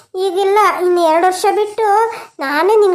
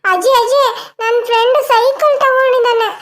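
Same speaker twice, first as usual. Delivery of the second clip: put-on higher childlike pleading voice; little boy asking; 7 semitones higher than usual. Grandson begging grandma for a bicycle, childlike. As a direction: coax grandma for a bike like a small boy. Adult voicing small grandson.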